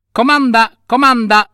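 vocina acuta e pronta; cipolletta magica servizievole. Acted. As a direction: offriti con una vocina alta. (vocina fatata, molto acuta)

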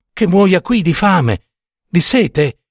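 high, slow, appalled question; acted pity mixed with horror; compassion and horror. A narrator's reading. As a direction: ask it in pitying disbelief. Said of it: "dalla compassione e dall'orrore".

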